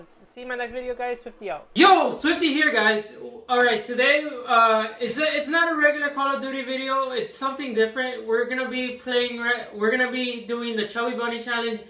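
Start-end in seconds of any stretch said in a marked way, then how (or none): 1.7-11.8 loud, hyped greeting; excited intro. Real, not acted. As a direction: pump up the viewers. Energetic video intro.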